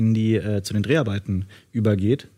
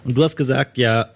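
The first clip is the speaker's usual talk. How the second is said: voice giving out. Real, not acted. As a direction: voice cracking and failing mid-sentence. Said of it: "meine Stimme versagt".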